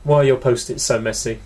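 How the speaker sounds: attempted South African accent; a hint of South African. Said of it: "Is that South African?".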